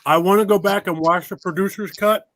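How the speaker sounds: talking around ice cubes; mouth full. Real, not acted. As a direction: speak with ice in your mouth. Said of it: "I got ice in my mouth".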